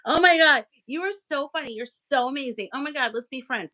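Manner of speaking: high, squealing mock gush; new acquaintance fawning over her, hammed-up high gush; gushing new friend. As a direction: overdo the instant adoration. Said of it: "where people get overly, like, into me".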